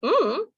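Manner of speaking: high hum that swoops; closed-mouth hum with a big pitch swing; intoned "mm", mouth closed; American non-word hum. Shown as a demonstration. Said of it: "Do you know what this means?".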